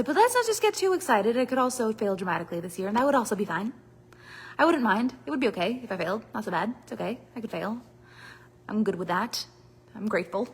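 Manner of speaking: hedging self-talk. Retold or imitated. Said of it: "Let's say".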